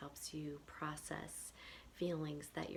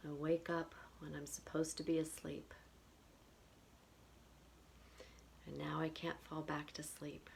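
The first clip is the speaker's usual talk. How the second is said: measured repeat-after-me phrases with long pauses; tapping affirmation script; 4 dB quieter than usual. Acted. Tapping guide gives listeners phrases to repeat, measured affirmation delivery. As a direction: lead a tapping round, one short phrase at a time.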